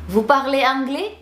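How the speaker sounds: high-pitched question climbing on "anglais"; rising intonation. Shown as a demonstration. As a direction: lift "anglais" right up at the end. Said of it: "kalau pertanyaan itu intonasinya naik".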